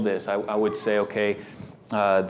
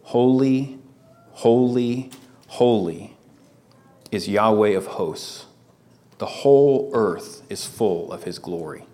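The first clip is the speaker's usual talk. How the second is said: called out. Shown as a demonstration. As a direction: call it out like angels in the temple. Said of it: "one called out to another and said".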